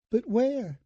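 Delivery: sudden high scared question; frightened. Acted. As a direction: blurt it out, suddenly afraid. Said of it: "She sounded suddenly frightened".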